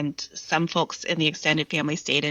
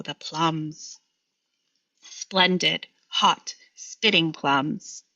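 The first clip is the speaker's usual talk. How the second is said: slow, measured poetry reading with long pauses; poem reading; slower than usual. Acted. Poet reading her own poem to the host, slow and measured. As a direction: let each image land, unhurried.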